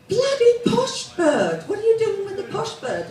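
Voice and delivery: rough-voiced ex's new girl. Club girl sneering to the ex about the posh bird, high mocking voice. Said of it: "and says".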